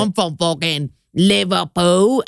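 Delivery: slow mock Liverpool accent; poor Liverpool accent. Shown as a demonstration. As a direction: drag it out in a rough Scouse impression. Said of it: "Poor is like".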